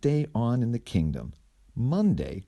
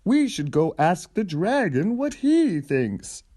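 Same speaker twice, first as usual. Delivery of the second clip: high, louder character voice; eager suggestion; 9 semitones higher, 4 dB louder than usual. Acted. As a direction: brightly propose the plan. Character suggests visiting dragon.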